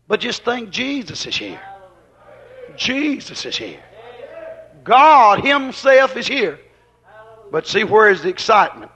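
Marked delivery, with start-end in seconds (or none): 2.8-3.8 "Jesus is here" low, soft and slow; hushed. Shown as a demonstration. Preacher telling the congregation, hushed and slow. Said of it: "repeated softer". 4.8-6.6 "God himself is here" drawn out, high and strong; proclaimed slowly. Acted. Preacher declaring to the church, slow emphatic proclamation.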